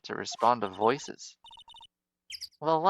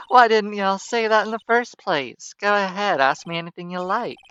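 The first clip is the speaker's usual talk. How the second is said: higher, louder, excited country twang; eager southern photographer; 7 semitones higher, 9 dB louder than usual. Acted. Photographer thrilled by murder case, eager Southern twang.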